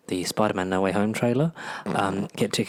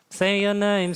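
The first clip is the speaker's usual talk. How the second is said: loud demand; 9 semitones higher, 4 dB louder, slower than usual. Pretend. Repeating demand, one loud take.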